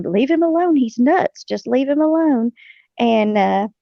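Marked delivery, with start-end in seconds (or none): 0.0-2.5 high, urgent mock yell; retold yelling. Wife yelling at husband to leave the stallion alone, high mock yell. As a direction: yell at him to leave the horse be. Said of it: "I was yelling at him".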